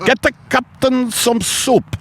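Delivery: high crewman voice; crewman's order. Pretend. Crewman sending for soup, high voice. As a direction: call the order down the deck.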